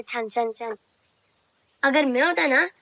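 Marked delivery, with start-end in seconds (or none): 0.0-0.8 low, soft "chhan chhan chhan"; sing-song jingling sound word; imitated anklet jingle. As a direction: mimic the tinkle of an anklet. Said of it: "तुम्हारे पायल की इतनी आवाज आ रही है".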